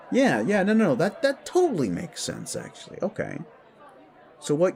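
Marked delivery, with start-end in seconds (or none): 0.1-2.5 high-pitched rush of agreement; eager agreement. Acted. Eager reassurance after understanding.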